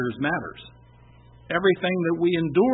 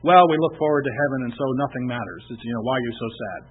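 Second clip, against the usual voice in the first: dismissive mock voice. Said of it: "you can have this sort of".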